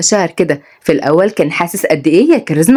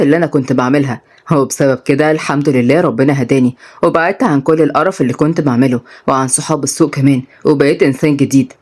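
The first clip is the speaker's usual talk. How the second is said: put-on lower, calm reassuring young man; lightly voiced, lower to soothe her; young man Rayan; 4 semitones lower than usual.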